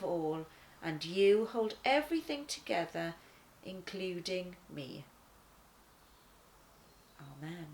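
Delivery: heartfelt devotional prayer; earnest prayer. Acted. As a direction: pray it for the children. Leads a closing prayer.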